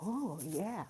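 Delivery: loose, drawn-out mock American drawl; flowing American. Imitating Americans who flow like Disney movies, loose mock drawl. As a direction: let it flow like a cartoon. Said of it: "it flows like a Disney movie".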